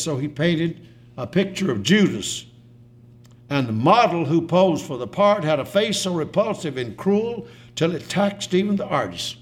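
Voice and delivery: preacher reciting dramatic verse; poem recital. Acted. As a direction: recite it to a congregation. Reads a poem aloud.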